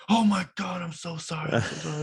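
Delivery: imitating a panicked teacher apologizing; high flustered apology; mock apologetic teacher. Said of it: "He went from angry to like".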